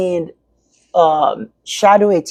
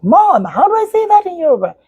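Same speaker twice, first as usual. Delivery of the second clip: lightly voiced little son, pitched up; child's voice; 10 semitones higher than usual. Son asking his mother how to say it, higher child voice. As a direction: mimic her small son asking, higher. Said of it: "He's like".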